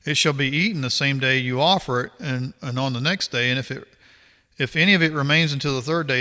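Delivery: measured, formal Bible reading voice; scripture reading. Acted. Reading Leviticus aloud to viewers, formal scripture reading. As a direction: read the verses out steadily, like a passage at church.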